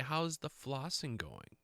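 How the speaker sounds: slow, pointed "How's the flossing going" in a lightly voiced hygienist; hint of a sly dental hygienist; mimicking the hygienist. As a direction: lightly imitate a knowing hygienist's loaded question. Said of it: "how does she say that?".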